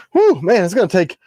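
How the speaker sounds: excited. Real, not acted. Laughing off Josh's early donation.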